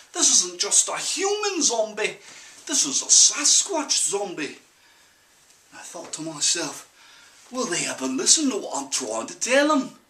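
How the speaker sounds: put-on country-accented yarn, urgency winding down; folksy farm-boy accent, still emphatic; put-on rural accent. Farm boy doubts parents will listen, in a put-on rural accent. Same accent, monologue ends.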